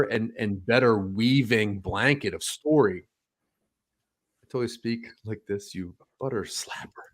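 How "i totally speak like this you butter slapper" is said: a soft, put-on London slang voice, lightly done; mock Cockney. Co-host making up Guy Ritchie slang, hushed mock Cockney. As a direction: toss off the insult in a half-hearted fake Cockney accent. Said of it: "It sounds more like Chet Hanks doing Jamaican".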